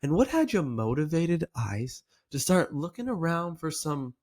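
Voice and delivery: gently lilting, interested question; curious. Shown as a demonstration. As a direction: wonder aloud, inviting them to share. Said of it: "it wants to sound like this".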